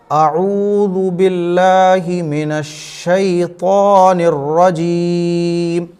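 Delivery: very slow, measured tajweed chant; Quranic recitation. Shown as a demonstration. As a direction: draw out each long vowel, hold the final रजीम. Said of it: "तो अब इसको पढ़िए आप". (धीमी, खींची हुई तजवीद वाली तिलावत)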